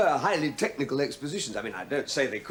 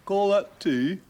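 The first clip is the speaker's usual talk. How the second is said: dying father's scorn; 8 semitones higher, 7 dB louder, much slower than usual. Retold or imitated. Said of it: "and he said".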